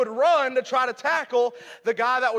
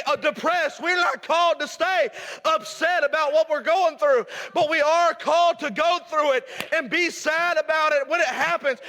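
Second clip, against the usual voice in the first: raised preaching voice, pressing the point; 4 semitones higher than usual. Acted. Preacher urging the church to keep going, raised preaching. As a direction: preach it to the congregation.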